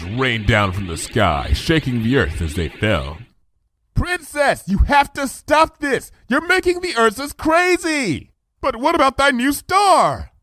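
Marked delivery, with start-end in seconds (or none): 3.9-8.3 high, urgent pony voice; urgent pleading. Acted. Twilight pleads with Luna. 8.6-10.3 high regal voice, archaic speech; royal Luna voice. Acted.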